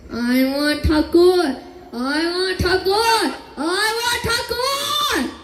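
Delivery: rising demand. Acted. Demanding Thakur, rising each time.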